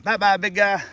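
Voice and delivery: sweet high bye-bye to a big pet; fond goodbye call. Real, not acted. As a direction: call a cheery bye-bye to the turtle. Calling goodbye to released turtle.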